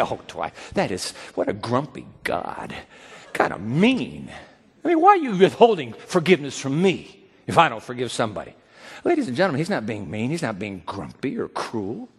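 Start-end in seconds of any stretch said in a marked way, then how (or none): 0.0-8.5 grumbling churchgoer. Pretend. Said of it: "You say".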